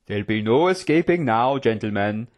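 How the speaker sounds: swaggering, leisurely jailer voice; gloating prison guard. Acted. Guard warning his two prisoners, gloating. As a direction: taunt them with smug relish.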